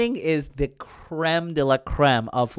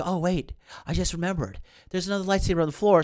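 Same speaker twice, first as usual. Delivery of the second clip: fast, softer mock realization in a put-on voice; mock ditzy Rey; 3 semitones higher, 4 dB quieter, much faster than usual. Rey remembers the second lightsaber, mock-ditzy rush. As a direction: blurt it out like it just dawned on her. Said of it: "then she's like".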